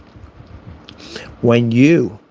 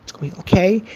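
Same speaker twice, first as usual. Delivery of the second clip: higher-pitched fake soothing; mock reassurance; 5 semitones higher, 3 dB quieter than usual. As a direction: soothe a raging gamer sarcastically. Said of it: "rage screamer in Call of Duty and they're ranting".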